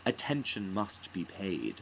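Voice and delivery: lightly imitated stage actress, slow and measured; mock stately delivery of a line; stagy Juilliard graduate. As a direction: draw it out like a polished drama-school recital. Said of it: "didn't have a New York accent at all".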